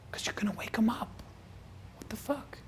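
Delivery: high, soft exasperated whisper; hushed mock exasperation; whispered scolding. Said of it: "Why are we whispering?".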